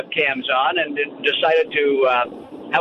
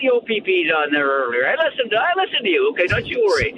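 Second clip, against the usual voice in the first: playful fake outrage, pitched up; mock complaint; 5 semitones higher than usual. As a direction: pretend to be wronged and indignant.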